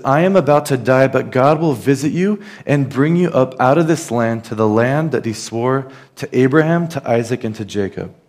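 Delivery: proclaiming Joseph. Retold or imitated. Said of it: "he says".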